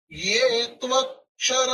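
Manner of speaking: त्वक्षर with a clear क्ष, not श; kṣa not sha. Shown as a demonstration. Teacher corrects the क्ष sound in त्वक्षर for students. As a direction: say त्वक्षर with half क joined to ष. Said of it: "श नहीं बोलना".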